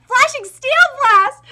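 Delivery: high, loud, slow battle cry; shouted attack name. Acted. Fighter unleashes his attack, shouting the move. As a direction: bellow the move like an anime hero.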